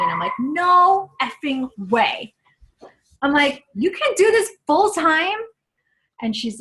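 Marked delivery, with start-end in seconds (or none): 0.4-2.3 stunned disbelief. Retold or imitated. Told she can go full-time. 3.7-5.4 high, stunned question; can this really be true; amazed question. Retold or imitated. Asking the coach in disbelief.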